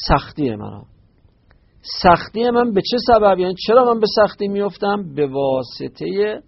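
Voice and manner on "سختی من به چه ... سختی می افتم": animated question. Shown as a demonstration. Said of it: "rhetorical question to students".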